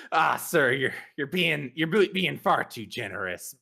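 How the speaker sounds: sheepish. Acted. Smith to the man paying him, sheepish. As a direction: stammer out a bashful thanks. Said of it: "I sheepishly kinda say".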